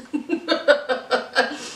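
short put-on giggle; brief chuckle in staccato bursts; mock laugh after a greeting; imitated laugh.

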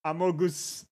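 "Amogus" copied with a French-style pronunciation. Shown as a demonstration. Streamer copies the translator's "Amogus", French pronunciation. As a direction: say "Amogus" as in French, with full vowels. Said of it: "if you do French".

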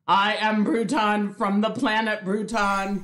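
stiff robot voice announcing itself. Pretend. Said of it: "it seems like a robot name".

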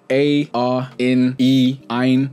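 A, R, in, E, ein as separate sounds; vowel sound demo. Shown as a demonstration. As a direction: sound out each one on its own: A, R, in, E, ein. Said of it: "example of vowel sounds".

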